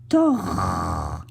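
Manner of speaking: "tor" with a long drawn-out R; final R demonstration. Shown as a demonstration. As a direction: hold the R at the end of "tor". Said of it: "j'entends le R".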